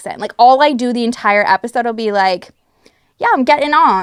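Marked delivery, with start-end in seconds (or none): 3.2-4.0 put-on English accent, pitched up. Describing copying lines after an episode of the show, in an English accent. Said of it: "repeat it with an English accent".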